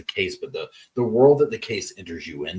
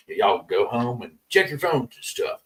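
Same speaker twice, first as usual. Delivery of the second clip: lightly put-on judge voice; a touch of a judge dismissing jurors. Judge sending jurors home after the verdict, lightly voiced judge. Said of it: "my go-to judge voice".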